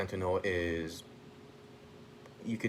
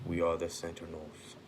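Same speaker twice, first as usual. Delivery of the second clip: lightly voiced robot, a little low; a hint of a deep, measured machine; robotic deep voice; 3 semitones lower than usual. Robots announcing themselves to Colossus, lightly robotic deep voice. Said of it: "then just this robotic, deep voice".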